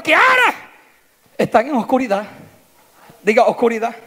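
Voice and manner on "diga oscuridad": ordinary talk, nothing marked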